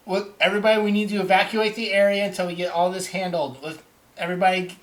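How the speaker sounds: a touch of commanding urgency; guard's evacuation order. Acted. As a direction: address the whole crowd with some urgency.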